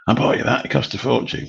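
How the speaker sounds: a lightly voiced wife, offended; mock indignant wife. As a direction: play the wife, put out about the money. Wife's reply voiced in story.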